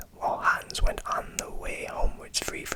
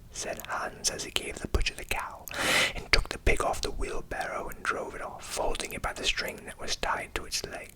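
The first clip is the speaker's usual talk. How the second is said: whispered storytelling; 4 dB quieter than usual. A narrator's reading.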